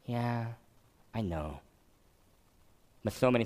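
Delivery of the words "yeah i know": dismissive shrug. Retold or imitated. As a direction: shrug it off like the boy. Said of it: "just like the boy".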